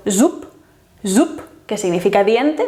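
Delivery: zup ending in a voiceless p; final devoicing. Shown as a demonstration. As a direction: say "zup" with a crisp unvoiced p at the end. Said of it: "se vuelve P".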